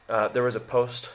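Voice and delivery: talking through hiccups; a hiccup catching the words. Real, not acted. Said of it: "I have the hiccups".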